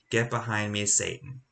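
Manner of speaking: low, soft, grave rebuke; quiet, heavy command; stern rebuke. Retold or imitated. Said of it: "And then Jesus says".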